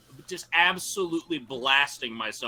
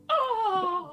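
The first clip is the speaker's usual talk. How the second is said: high flying exclamation; joyful whoop. Acted. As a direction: shout with glee mid-air. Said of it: "as I'm like".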